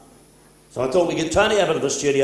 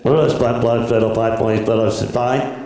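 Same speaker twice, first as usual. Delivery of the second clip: louder, lower garbled station announcement; muffled PA announcer; 5 semitones lower, 4 dB louder than usual. Acted. Railway announcer over the PA, mock garbled lower call. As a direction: mumble it like a bad railway PA. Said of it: "he said".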